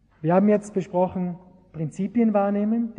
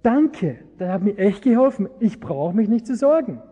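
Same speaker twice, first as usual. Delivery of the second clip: relieved thanks; 4 semitones higher, 4 dB louder than usual. Retold or imitated. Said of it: "hat zurückgerufen und hat gesagt".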